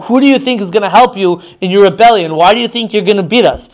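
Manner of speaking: mild mock taunt; lightly acted, goading questions. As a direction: challenge them as a rival's messenger. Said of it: "sort of taunt them and say".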